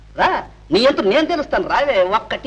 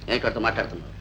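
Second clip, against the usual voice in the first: low, soft suspicious question; menacing interrogation; 12 semitones lower, 8 dB quieter, faster than usual. Acted. Suspicious husband interrogates wife. (అనుమానంగా, తగ్గు స్వరంలో)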